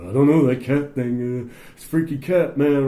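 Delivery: weird Southern California burnout voice; spaced-out California oddball, lightly pushed; Crazy Lance. Retold or imitated. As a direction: imitate a Hunter S. Thompson-style oddball. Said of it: "Southern California voice thing".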